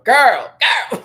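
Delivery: put-on high, loud amazed girl; awed girl. Awed by the pearl look, a loud high cry. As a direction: cry it out in awe. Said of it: "I was over here going".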